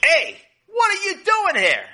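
very high, loud farmer's outburst; most intense voice. A narrator's reading. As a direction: shout it at an intruder, high and intense. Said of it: "in his most intense voice".

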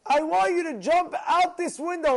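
high, loud jeering challenge; menacing taunt. Retold or imitated. Axe-wielding intruder taunting the rabbi: high, loud, threatening. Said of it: "And he said to the rabbi".

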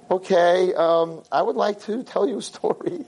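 scared. Retold or imitated. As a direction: mildly act out a scared speaker starting off. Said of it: "I'm, like, so scared".

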